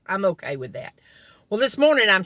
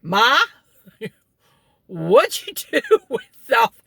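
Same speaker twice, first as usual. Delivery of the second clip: put-on laughing child's question; 4 semitones higher, 4 dB louder than usual. Retold child asking mother.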